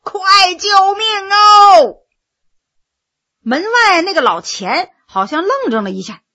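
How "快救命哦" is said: high, loud, slow cry for help; 扯着嗓子喊救命; yelling at the top of lungs. A narrator's reading. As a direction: drag out the scream for rescue. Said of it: "扯着嗓子叫".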